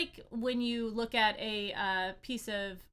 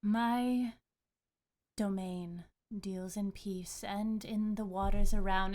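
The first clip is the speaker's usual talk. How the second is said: calm goddess. Acted. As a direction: answer as a calm deity. GM voices water goddess.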